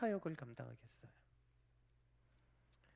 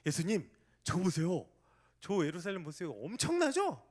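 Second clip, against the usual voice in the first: disciples in awe; 2 semitones higher, 4 dB louder than usual. Retold or imitated. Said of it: "제자들이 말합니다".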